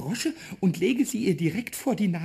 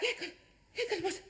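giggling question; 8 semitones higher, 6 dB quieter than usual. Acted. Pumuckl giggles after mischief.

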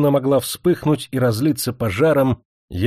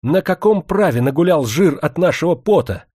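threatening; 5 semitones higher than usual. A narrator's reading. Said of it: "пригрозила Демидову".

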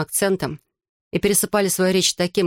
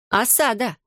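mesmerizing intonation; 5 semitones higher than usual. Acted. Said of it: "с какой-то завораживающей интонацией".

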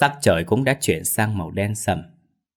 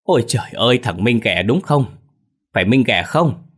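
glad surprise; 3 semitones higher, 4 dB louder than usual. Acted. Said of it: "mà vui mừng vội đỡ dậy đánh tiếng".

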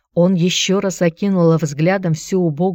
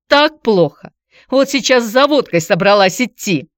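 high, loud, tearful begging; desperate plea; 6 semitones higher, 5 dB louder than usual. A narrator's reading. Antonina begging ex-husband to take her to Piter, high tearful plea. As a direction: beg him, voice cracking high.

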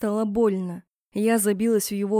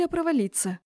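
usual speaking voice

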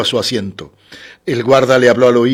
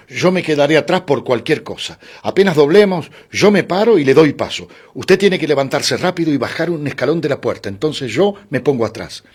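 lightly acted man insisting, voice raised in pitch; animated, higher-pitched planning; protective male passenger; 4 semitones higher than usual. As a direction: give urgent, helpful instructions to a companion. Man plans their quick exit.

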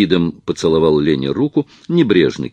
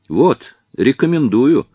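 higher, louder playful presentation; laughing recommendation; 7 semitones higher, 5 dB louder, slower than usual. A narrator's reading. Actress pointing out the actor to her friend, amused. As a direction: present him slowly, with a touch of laughter. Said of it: "засмеялась Лена".

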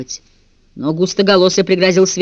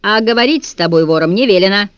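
stern; 3 semitones higher, 4 dB louder than usual. Acted. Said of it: "строго сказал жидкоголосый".

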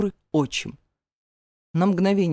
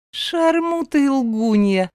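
slow, higher mock-parroting of her words; mocking mimicry; 7 semitones higher, 3 dB louder, slower than usual. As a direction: parrot her back in a nasty singsong. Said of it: "передразнила Латифа".

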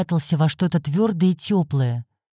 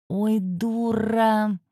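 медленный протяжный стон; выдохнуть с досадой, как кот; стон кота; 4 semitones higher, 4 dB quieter, much slower than usual. A narrator's reading. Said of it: "простонал кот". (кот стонет от глупости хозяйки, протяжно)

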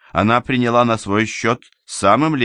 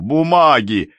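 louder, higher shout of alarm; alarmed cry; 7 semitones higher, 6 dB louder, slower than usual. Acted. Official rushes to save his papers, alarmed cry.

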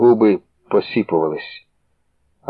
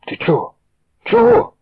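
baffled, voice jumping up; confused, shooting up high on the second word; bewildered asking; puzzled. A narrator's reading. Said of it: "спантеличено проказав".

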